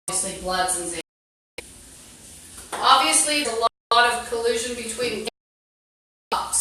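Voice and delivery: talking through a toothbrush; muffled by a toothbrush in mouth; while brushing teeth. Real, not acted. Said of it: "So I'm brushing my teeth right now".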